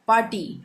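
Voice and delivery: "पार्टी" said "paa-tee"; silent r. Shown as a demonstration. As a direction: skip the r in "पार्टी". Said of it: "हम बोलते हैं ना". ("पार्टी" को "पाटी" बोलें)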